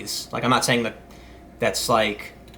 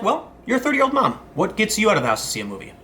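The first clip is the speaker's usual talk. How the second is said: high, light, curious asking voice; innocent question voice; 8 semitones higher than usual. Retold or imitated. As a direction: ask it brightly, like a harmless general question. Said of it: "Or maybe he was like".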